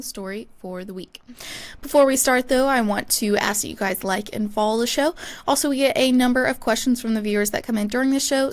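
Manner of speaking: brisk, even podcast host read; scripted sports podcast opener; show intro read. Real, not acted. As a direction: announce the show's line-up and plugs smoothly.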